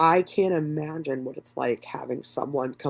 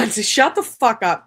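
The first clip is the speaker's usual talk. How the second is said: laughing at herself; 7 semitones higher, 6 dB louder, slower than usual. Real, not acted. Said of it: "I literally said to myself".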